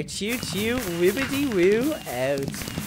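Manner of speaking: goofy catchphrase sign-off; sing-song your signature goodbye; silly outro. Real, not acted. Youtuber signing off to viewers with a goofy catchphrase.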